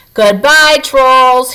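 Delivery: a cheerful farewell call; shouted goodbye. Acted. Father calling after the fleeing trolls, mild shout. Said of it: "he shouted".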